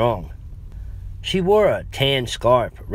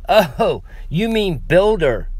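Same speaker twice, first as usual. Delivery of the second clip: relieved; 8 semitones higher, 4 dB louder, slower than usual. Acted. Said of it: "I said, relieved".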